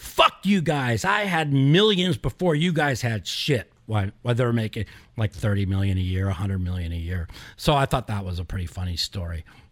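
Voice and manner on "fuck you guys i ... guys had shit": acted-out furious scream, high and drawn-out. Retelling how a friend screamed during a game: imitating Phil screaming. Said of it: "started screaming at him".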